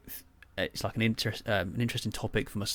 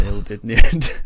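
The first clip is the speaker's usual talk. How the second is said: laughing; 13 dB louder than usual. Real, not acted. Repeats punchline laughing.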